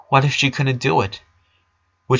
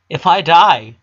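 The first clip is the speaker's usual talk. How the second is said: earnest plea; 6 semitones higher, 7 dB louder than usual. A narrator's reading. Brother pleading earnestly.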